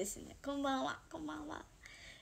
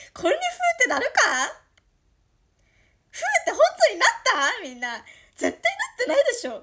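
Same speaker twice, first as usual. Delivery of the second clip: high, loud, fast giggling protest; embarrassed laughing; 9 semitones higher, 10 dB louder, faster than usual. Real, not acted. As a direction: laugh it off in disbelief. Embarrassed teasing viewers.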